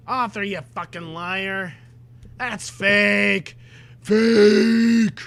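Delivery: rising from a loud call-out to a high shout on the last word; exasperated shout at the author; building outraged shout. Real, not acted.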